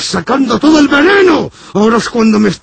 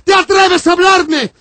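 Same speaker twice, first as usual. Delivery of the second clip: raised, preaching condemnation; outraged priest; 6 semitones higher than usual. Acted. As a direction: thunder at him like an offended priest.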